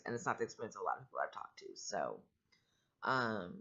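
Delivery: growly, rough allergy voice; a growl from allergies. Real, not acted. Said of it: "I'm sorry if my voice sounds growly".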